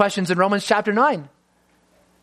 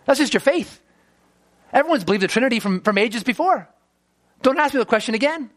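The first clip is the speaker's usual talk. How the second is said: mock scolding; 5 semitones higher than usual.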